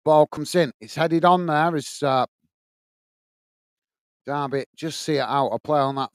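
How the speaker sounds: measured football commentary; live play-by-play. Real, not acted. Match commentator telling stream viewers it's a goal kick, measured play-by-play. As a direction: call the match steadily as it unfolds.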